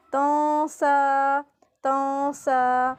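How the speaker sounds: تاں سا with the "n" hidden in the nose; nasal ikhfa. Shown as a demonstration. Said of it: "ناک میں آواز لے کے جانی ہے". (تاں سا میں اخفا، آواز ناک میں)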